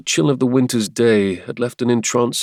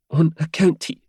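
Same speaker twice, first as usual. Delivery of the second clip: Helia voice; 8 semitones higher than usual. Acted.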